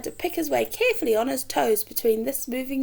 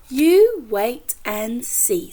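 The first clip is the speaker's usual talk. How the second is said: knowing; 5 dB louder, much slower than usual. Acted. Hoppy's knowing reply.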